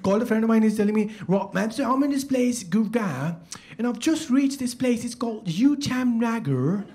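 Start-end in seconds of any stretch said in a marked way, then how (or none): 1.3-6.9 lightly exaggerated British accent. Friend phoning about reaching Uttam Nagar, mock British accent. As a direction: make place names exotic in a British accent. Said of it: "only a British accent".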